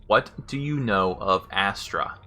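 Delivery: slowed-down question, each word set apart; slow, careful repeat. Real, not acted. Player repeats command the game isn't picking up, slow and careful. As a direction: say it slowly for a voice-recognition program.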